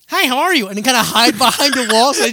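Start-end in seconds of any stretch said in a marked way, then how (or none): 0.1-0.7 friendly greeting. Retold or imitated. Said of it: "he'll be like".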